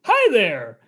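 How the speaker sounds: bright robotic helper greeting; a light cheerful assistant voice; chirpy assistant. Acted.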